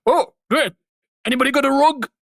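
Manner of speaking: high-pitched Irish character voice; animated high impression; Jacksepticeye. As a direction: pitch it up in a playful Irish lilt. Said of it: "Jacksepticeye's like".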